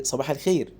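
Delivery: friendly good morning, a touch of a smile; cheerful greeting. Pretend. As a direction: greet him kindly, like a boss who likes you. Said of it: "وبتضحك كده". (تحية مرحة لطيفة)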